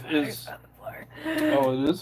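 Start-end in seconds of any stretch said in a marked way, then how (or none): 1.3-2.0 hushed whisper. Pretend. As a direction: whisper it like a secret. Answering in a whisper.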